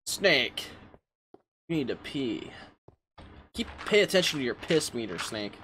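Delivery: lightly voiced urgent call to Snake; game character impression. Game ally warning Snake about his meter, in a lightly put-on character voice. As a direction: call out a mock warning, then trail down. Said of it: "Let's just stop with the impressions".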